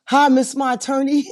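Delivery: high, loud mock phone yell; Tyrone yelling. Client phones his new attorney, high mock yelling. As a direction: imitate an excited client hollering down the line. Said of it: "Mister Tyrone is on my phone yelling".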